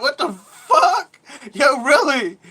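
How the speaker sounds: high, drawn-out mock yell; hammed-up shriek of disbelief, very loud; retold disbelief. Acts out childhood disbelief at mom.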